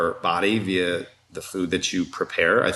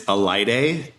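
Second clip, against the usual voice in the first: slow name. Shown as a demonstration. Husband repeats wife's crazy name for the host, slowly. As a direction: say Alaide slowly, syllable by syllable. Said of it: "can you say her name slowly".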